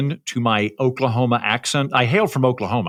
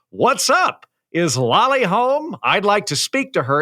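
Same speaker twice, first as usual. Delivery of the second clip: higher, badly faked boyish voice; pretending to be a boy; 7 semitones higher, slower than usual. Calling girlfriend's parents back, badly faking a boyish voice. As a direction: stiff attempt at sounding like a casual kid. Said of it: "call back and pretend to be a boy".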